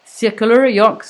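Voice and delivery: slow English words with a French accent; careful English in a French accent. Real, not acted. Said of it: "mon accent anglais est terrible".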